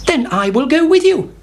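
high, keen hen; eager hen. A narrator's reading. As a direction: join in at once. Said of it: "said Henny Penny".

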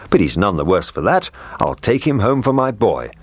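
cook's voice. Acted. The cook speaks.

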